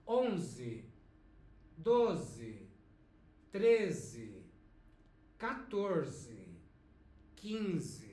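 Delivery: onze, doze, treze said slowly and clearly for repeating; teacher modelling numbers. Shown as a demonstration. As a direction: model each number for the class to echo. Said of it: "let's say once again, after me".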